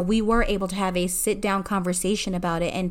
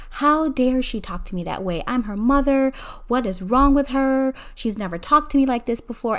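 mildly indignant retold thought, pitched higher; indignant hurt mother; 4 semitones higher than usual. Mother fuming to herself after arguing with her daughter, mildly indignant. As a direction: re-enact a touch of wounded outrage. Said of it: "I'm s-, angry".

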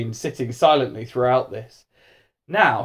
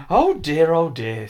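higher first sigh of dismay, then dropping; mildly rueful; 4 semitones higher, slower than usual. Acted. Mister Majika sees the damage, mildly rueful. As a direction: let it fall away, a touch regretful. Teacher regrets his spell.

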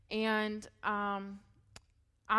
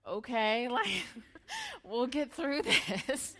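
laughing through tears; 3 semitones higher, much slower than usual. Real, not acted. Husband's reassurance, she laughs tearfully.

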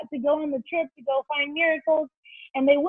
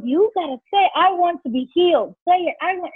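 insistent, higher-pitched retold command; retold angry urging; 4 semitones higher than usual. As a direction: act out a leader pressing someone to speak up. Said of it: "I was getting so angry".

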